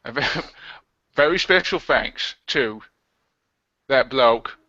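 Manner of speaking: badly faked London film-star voice; deliberate actor impression, London accent; Michael Caine. Host thanking earlier guest, poor actor impression. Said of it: "your Michael Caine impression is bollocks".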